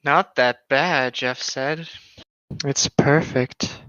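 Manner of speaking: slow, drawn-out eerie voice; creepy Jeff. Acted. Jeff admiring his mangled face, slow and eerie. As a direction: savor it slowly like a madman.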